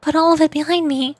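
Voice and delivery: lightly voiced young narrator, earnest and regretful; reading character lines. Streamer reading a game character's confession, earnest.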